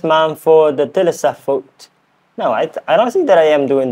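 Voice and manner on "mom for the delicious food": higher, unsure British accent; British accent attempt. Shown as a demonstration. Learner thanking Mom in a practice sentence, British accent attempt. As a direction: have an awkward go at British. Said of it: "that accent".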